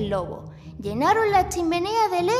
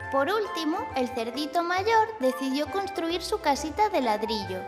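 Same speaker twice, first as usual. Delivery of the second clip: put-on gentle storytelling for kids; story narration. A narrator's reading. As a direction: read it like a bedtime tale.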